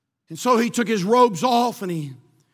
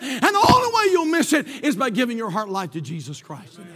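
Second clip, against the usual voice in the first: crying preacher. Real, not acted. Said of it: "cry shout".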